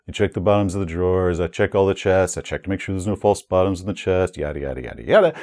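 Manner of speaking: mimicking players reciting by rote, trailing off; rote mantra. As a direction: rattle it off like a bored chant. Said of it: "going through this mantra of".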